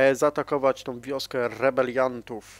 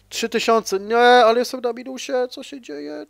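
much higher, alarmed disbelief at the numbers; startled as the gold goes negative; shocked; 10 semitones higher, 7 dB louder than usual. Real, not acted. Player sees his gold in the minus, high alarmed surprise.

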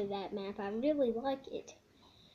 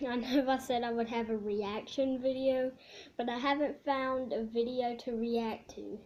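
speaking past fingertips; fingers at lips. Real, not acted. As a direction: hand touching mouth. Seen 2: Fingers rest on lips and chin throughout; no food seen.

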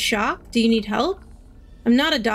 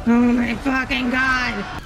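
slow horrified shout; panicking gamer; slower than usual. Real, not acted. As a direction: gasp it out in horror. Player horrified by monster.

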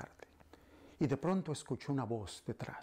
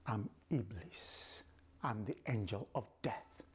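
evil voice. Acted. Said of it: "the voice is like an evil voice".

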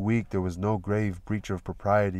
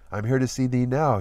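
gallant; 4 semitones higher, 4 dB louder than usual. Acted. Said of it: "he said gallantly".

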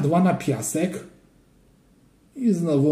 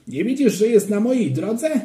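put-on higher, cross kid's complaint; annoyed child; 7 semitones higher, 3 dB louder than usual. A narrator's reading. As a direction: snap at him like an irritated boy. Child quarrel over sand. (rozdrażnione dziecko)

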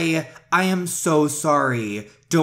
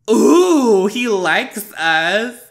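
much higher and louder, drawn-out squeal of delight; excited squeal; 8 semitones higher, 9 dB louder, much slower than usual. Real, not acted. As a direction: squeal like you just got picked. Thrilled the prince picked them.

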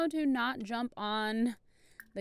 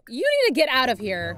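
loud, firm mock eviction; mock angry order; 7 dB louder than usual. Player ordering the rude pet to leave, mock angry. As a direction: order him out, half-joking.

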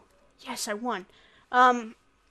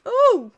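excited ooh; 10 semitones higher, 12 dB louder than usual. Real, not acted. Reacting to the game.

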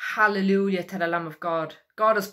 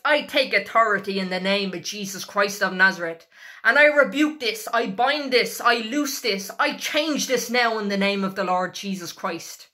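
commanding decree. Shown as a demonstration. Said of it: "declare and decree a thing".

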